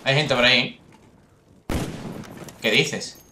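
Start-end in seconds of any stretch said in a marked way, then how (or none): 2.6-3.2 low, soft incredulous question; muted disbelief. Real, not acted. Gamer stunned by a missed shot, muted disbelief. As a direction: ask it quietly, stunned. Stunned first take, then builds.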